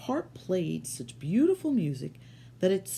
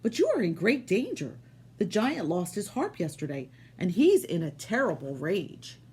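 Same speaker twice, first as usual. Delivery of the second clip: giant's wife. Acted. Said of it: "she said".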